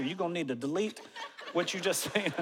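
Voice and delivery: laughing while talking. Real, not acted. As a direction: laugh through the words.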